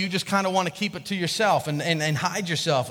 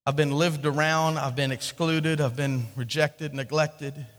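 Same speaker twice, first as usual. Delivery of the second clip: weary despair; 3 semitones lower than usual. Acted. Woman voiced in her despair.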